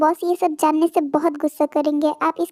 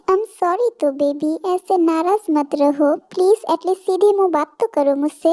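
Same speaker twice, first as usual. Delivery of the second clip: pleading apology. Acted. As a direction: plead gently with a sulking partner. Jungkook pleading forgiveness.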